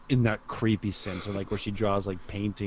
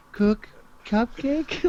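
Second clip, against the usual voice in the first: Zoo character voice; 12 semitones higher, much slower than usual. Retold or imitated. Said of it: "she was bringing Zoo to work".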